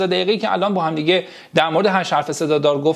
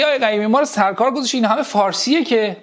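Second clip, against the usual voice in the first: imagined student protest; 4 semitones higher, faster than usual. Acted. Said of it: "الان با خودتون میگی".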